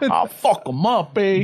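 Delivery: put-on slow, tough Chicano cholo accent. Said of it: "Me salió my cholo voice".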